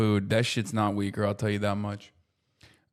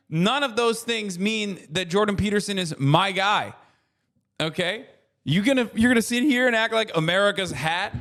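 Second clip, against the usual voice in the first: pitched-up outraged rant, brushing chat off; indignant rant; 5 semitones higher than usual. Real, not acted. Streamer ranting at chat over Jordan Peterson, outraged. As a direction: snap back at the chat with high mock outrage.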